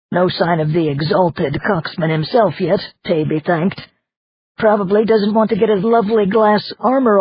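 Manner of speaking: talking through a mouthful; mouth full. Acted. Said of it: "talking with his mouth full".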